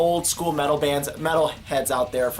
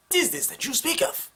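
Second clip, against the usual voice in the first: higher put-on snooty voice; haughty question; 11 semitones higher than usual. Imagined skeptic asking the vlogger, mock haughty. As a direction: ask it with mock disdain. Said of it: "some of you are probably wondering".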